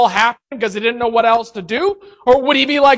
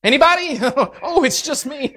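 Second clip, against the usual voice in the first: sheepish laugh; 3 semitones higher, faster than usual. Retold or imitated. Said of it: "you're going".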